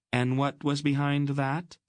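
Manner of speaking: high, probing aunt's voice; stern aunt. Acted. Aunt questioning Garion about his motive, stern. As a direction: demand the reason behind it.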